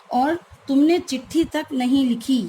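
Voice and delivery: तक given reproachful emphasis; stress on तक. Shown as a demonstration. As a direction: hit तक hard. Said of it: "तक शब्द पे हमने अतिरिक्त बल दिया है".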